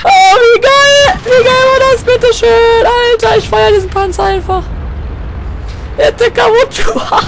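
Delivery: high, loud overjoyed shouting; ecstatic cheering. Real, not acted. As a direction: cheer your tank like a fan. Celebrating his tank.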